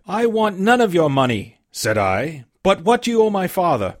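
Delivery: put-on a boy standing up to the captain; lightly voiced lad, refusing a bribe; young Jim, firm.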